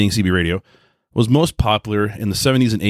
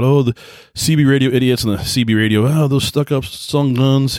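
mocking; 3 semitones higher than usual. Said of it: "people in amateur radio talk about".

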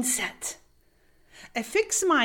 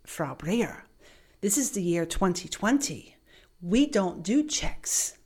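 curt bank clerk; 4 semitones lower than usual. Retold or imitated. Bank clerk coldly refusing the American customer, low and dismissive.

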